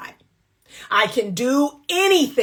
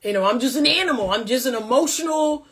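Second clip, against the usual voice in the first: lightly voiced brainless man, mocking; a hint of the dim-witted brute again; mocking dumb man; 3 semitones higher than usual. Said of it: "That's what you're saying".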